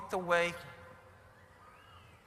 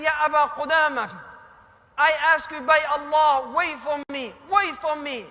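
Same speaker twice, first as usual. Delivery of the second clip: urgent call; 5 dB louder than usual. Retold or imitated. Rider begs him to wait.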